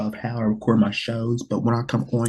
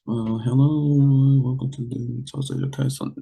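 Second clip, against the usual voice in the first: mock depressed host. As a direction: imitate a gloomy host going through the motions. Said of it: "sounding like coming here".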